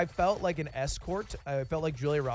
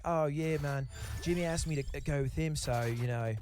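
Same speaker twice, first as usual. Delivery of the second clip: lightly imitated British guy; British accent. Runner explaining he went with Jimmy, British accent. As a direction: put on a casual British accent. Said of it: "he's, like, a British guy".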